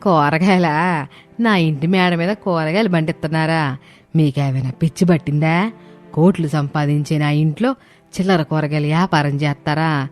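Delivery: high-pitched, indignant telling-off; scolding mother-in-law. Acted. Mother-in-law forbidding a vegetable business at home, scolding. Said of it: "Sharada అరుపులకి".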